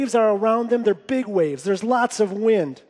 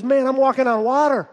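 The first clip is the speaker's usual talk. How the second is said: amazed exclamation; 4 semitones higher, 4 dB louder than usual. Retold or imitated. Peter voiced realizing his feat.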